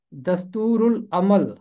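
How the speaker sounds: teacher models दस्तूरुल अमल with the ल kept audible; careful pronunciation. Shown as a demonstration. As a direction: spell out दस्तूरुल अमल so the ल of उल is heard. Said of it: "इसका तलफ़ुज़ है".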